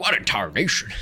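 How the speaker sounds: spluttering through coughs. Game master voices a character being dragged into the room, coughing and spluttering. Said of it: "sort of coughing and spluttering".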